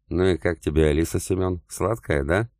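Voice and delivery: taunting lilt, drawing out the names; mocking. Captive Ilham taunting Semyon about Alisa, mocking. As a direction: needle him with a sneering sweetness. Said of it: "издевался он".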